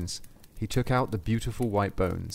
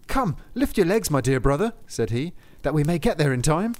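loud, higher urging; hurrying him; 4 semitones higher, 4 dB louder than usual. Acted. Lustig to Saint Peter, loud hurrying.

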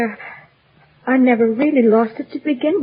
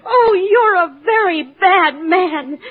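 tearful reproach; 2 semitones higher, slower than usual. Acted. Dorothy accuses the wizard tearfully.

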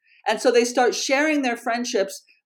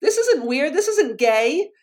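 reassuring; 7 semitones higher, slower than usual. Retold or imitated. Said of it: "I just said".

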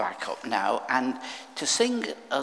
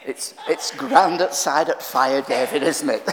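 a hint of an old guy, louder; lightly voiced old man; 7 dB louder than usual. Preacher recalling an old guy's words to him, lightly imitated. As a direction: imitate an old man's remark with amusement. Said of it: "and he said to me".

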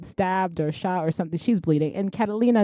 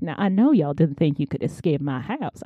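put-on southern gentleman accent; 4 semitones lower, 4 dB quieter than usual. Villain taunting escapees in his house, southern gentleman accent. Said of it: "why he's a southern gentleman".

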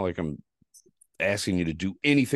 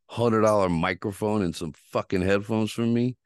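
heated, raised ranting at her; angry rant; 5 semitones higher, 4 dB louder than usual. Retold or imitated. Venting at the woman who blocked him, angry. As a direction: let it rip, furious and insulting.

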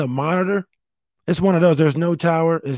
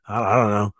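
burst of laughter; 4 semitones lower, 3 dB quieter than usual. Real, not acted. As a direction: crack up helplessly at your own story. Laughing at son's disappointed look.

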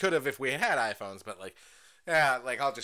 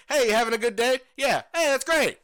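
perky small talk; 10 semitones higher, 8 dB louder than usual. Acted. Acting out polite counter small talk.

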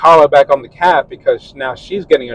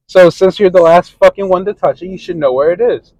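mock angry; 4 semitones higher, 4 dB louder than usual. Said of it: "And I'm like".

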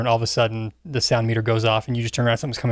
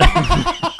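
a burst of high laughter; sudden high-pitched laugh; 3 dB louder than usual. Real, not acted.

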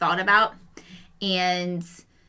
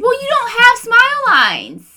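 amused disbelief; 10 dB louder than usual. Real, not acted. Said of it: "friend teasing".

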